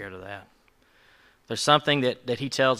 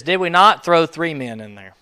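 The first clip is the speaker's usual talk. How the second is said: king's astonishment; 5 semitones higher, 12 dB louder than usual. Retold or imitated. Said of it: "And he says".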